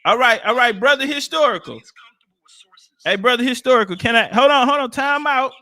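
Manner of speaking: loud calls to get his attention; calling out. Real, not acted. Shouting over the panel for attention.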